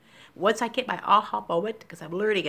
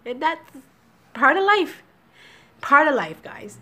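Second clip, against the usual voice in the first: tearful; 6 semitones higher, 6 dB louder than usual. Real, not acted. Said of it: "I'm tearful today".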